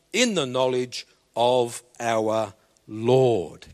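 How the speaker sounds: slow, measured Bible reading; scripture reading. Acted. Preacher reading Second Peter to the congregation. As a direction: read the verses with weight.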